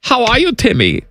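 put-on German accent. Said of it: "my German accent".

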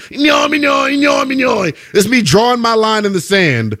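squeaky nonsense-syllable cartoon impression; Doodle Bob. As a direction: babble nonsense like a cartoon doodle before speaking. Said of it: "do my best Doodle Bob impersonation".

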